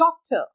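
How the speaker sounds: doctor with a light English d; soft English D. Shown as a demonstration. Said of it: "ड sound soft होता है". (doctor में नरम अंग्रेज़ी ड)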